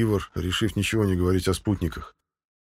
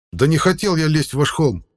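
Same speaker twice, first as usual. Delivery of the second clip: loud, high yell losing patience; 9 semitones higher, 6 dB louder than usual. A narrator's reading. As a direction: shout it out in exasperation. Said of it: "заорал Ивар".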